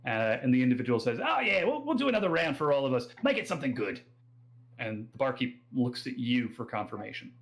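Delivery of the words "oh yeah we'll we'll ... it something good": breezy Australian bar order, starting high; quick, rowdy Australian ordering a round; Australian accent. Acted. Drunk local orders from the barkeep, breezy Australian accent. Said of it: "that's my Australian accent".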